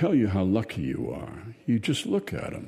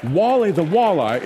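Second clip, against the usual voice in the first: booming fish name; 7 semitones higher, 7 dB louder than usual. A narrator's reading. Giant talking fish statue.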